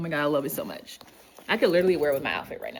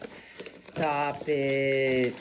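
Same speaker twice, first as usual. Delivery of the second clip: surprised gasps. Real, not acted. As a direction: gasp in disbelief. Gasping at gift.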